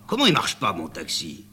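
montée aiguë, puis retombée sur « mon taxi »; indignation vexée. Acted. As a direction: se vexer qu'on critique son taxi. (le chauffeur s'indigne devant Amanda)

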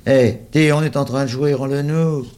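put-on high, loud kids calling out; shouting children. A narrator's reading. The little ones demanding their ball from the big boys, shouted. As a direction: yell to get the ball back.

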